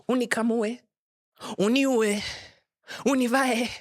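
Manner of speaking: complaining cow. Pretend. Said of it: "A cow would say".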